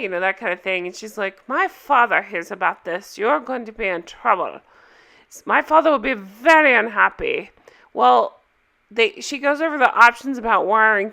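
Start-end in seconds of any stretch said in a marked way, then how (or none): 1.5-7.5 imitated haughty warning in a put-on foreign accent; Anna's foreign accent. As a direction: put on a vague foreign accent, leaning on the threat. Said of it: "So Anna is confronted by the hotel staff".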